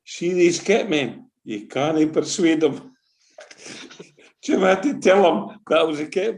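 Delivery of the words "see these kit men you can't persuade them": slow, deliberate aside; slow wry quote. Retold or imitated. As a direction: spell it out slowly to the official. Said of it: "Jim Renton said to the uefa officials".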